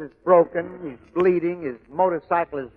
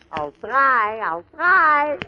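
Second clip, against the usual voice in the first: trying an Irish accent; 7 semitones higher, 3 dB louder, much slower than usual. Shown as a demonstration. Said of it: "a little out of my line".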